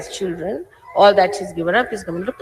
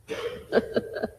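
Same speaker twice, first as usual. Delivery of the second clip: chuckle; 9 dB quieter than usual. Real, not acted. Audience address, light chuckle.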